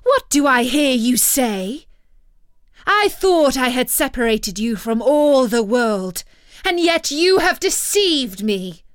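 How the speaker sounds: loud, furious enchantress scolding; angry scolding. Acted. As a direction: rage at the betrayal, loud. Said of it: "cried the enchantress".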